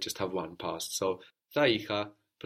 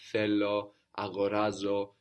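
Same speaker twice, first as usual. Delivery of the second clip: θέλω and αγοράζω, each accented one syllable before the end; penultimate stress. Shown as a demonstration. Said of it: "the second last syllable".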